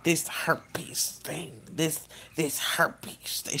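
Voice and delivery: slow, breathy whispered mom; hushed whisper. Retold or imitated. Mom hushing the word to her daughter, slow whisper. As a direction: whisper the word like it's shameful. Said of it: "She couldn't barely say the word".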